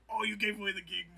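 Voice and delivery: loud, high whining jazz musician; Max Rebo. Acted. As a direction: protest like a musician who lost the gig. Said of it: "he's a stereotypical jazz musician".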